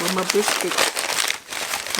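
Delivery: slow, high, breathy whine; mock distress. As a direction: play up missing biscuits, drawn out. Biscuits seem missing from bag.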